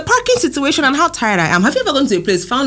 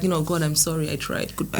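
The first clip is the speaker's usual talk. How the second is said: resigned mutter; 3 semitones lower, 9 dB quieter than usual. Retold or imitated. Giving up on parking.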